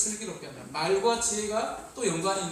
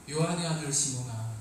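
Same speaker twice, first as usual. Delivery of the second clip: gentle call; 6 semitones lower than usual. Acted. Jesus gently calls Peter.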